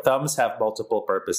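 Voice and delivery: monotone robot voice; flat robotic delivery. Pretend. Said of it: "You really sound like a robot".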